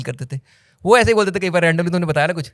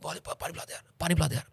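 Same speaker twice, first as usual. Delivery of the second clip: mock whiny plea; 13 dB quieter, faster than usual. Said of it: "उसमें वो करता है".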